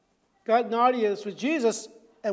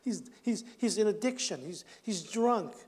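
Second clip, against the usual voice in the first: smug assumptions; 5 dB quieter than usual. Retold or imitated. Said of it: "I said".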